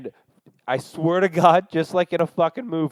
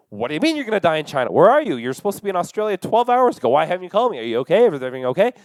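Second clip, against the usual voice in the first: worried mom; 3 semitones higher, much faster than usual. Retold or imitated. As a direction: rattle off a panicking mother's questions. Frantic mom's flood of messages.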